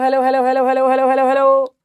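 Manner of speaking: sing-song hello calls into the mic; calling out hello. Real, not acted. Teacher calling her students in with lilting hellos. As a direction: call the class in with a lilting hello.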